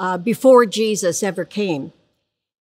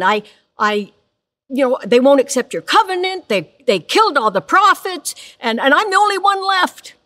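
higher, fast self-pitying complaint; whining Elijah; 4 semitones higher, 3 dB louder than usual. Acted. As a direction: plead your case like the last one standing. Elijah repeats his complaint to God.

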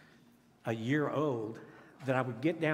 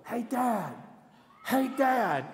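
put-on higher-pitched little girl calling out; little bitty voice; 7 semitones higher, slower than usual. Daughter calling her dad across the classroom, in a little bitty voice. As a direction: imitate a small child calling for a parent. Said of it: "I hear this little bitty voice".

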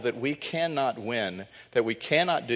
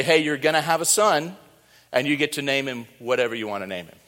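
breezy, offhand, louder and rushed at the end; casual mock angel; 3 semitones higher, 5 dB louder, faster than usual. Angel to Joseph as he didn't say it, casual and offhand. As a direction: toss it off like a buddy. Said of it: "He didn't say".

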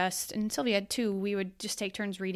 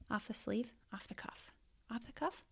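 self-correcting whisper; 2 semitones higher, 11 dB quieter than usual. Real, not acted.

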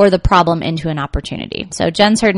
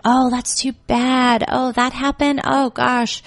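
dismissive acknowledgment; 5 semitones higher, slower than usual. Shown as a demonstration. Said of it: "I just wouldn't give into it".

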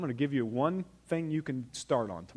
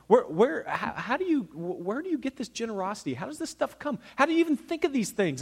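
amazed questioning; 7 semitones higher than usual. Retold or imitated. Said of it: "If you ask my dad or my mom".

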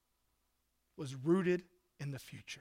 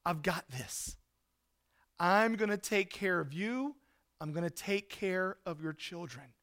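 reassuring Joseph. Acted. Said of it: "He says".

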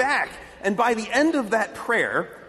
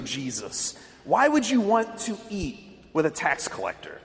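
pretend Zacchaeus. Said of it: "could have responded like that witch did".

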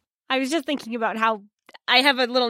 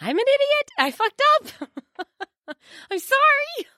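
laughing self-reproach; 13 semitones higher than usual. Real, not acted. Player laments mistake.

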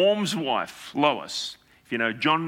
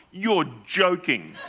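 laughing disbelief; 3 semitones higher, much slower than usual. Retold or imitated. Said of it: "I quote myself".

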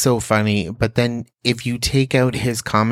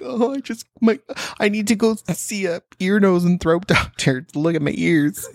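high, whiny complaining listener; 9 semitones higher than usual. Retold or imitated. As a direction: whine like an annoyed listener. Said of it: "I don't want them to be like".

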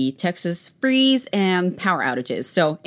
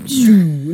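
imitated machine noise; 3 semitones higher, 9 dB louder than usual. Imitates coffee machine powering down.

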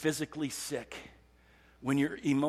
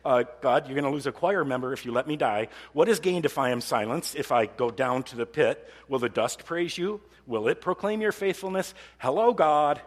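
higher, louder cheeky pleading with God; mock bargaining David; 3 semitones higher, 6 dB louder than usual. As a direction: wheedle God like a bargaining singer. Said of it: "He's kinda like".

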